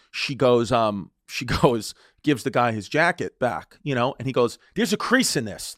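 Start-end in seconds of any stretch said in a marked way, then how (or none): 4.8-5.7 higher-pitched petty complaint; acting like a dick. Passenger complaining to flight attendant about his jacket, mock obnoxious. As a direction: imitate an obnoxious, fussy passenger. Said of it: "he was being such a dick".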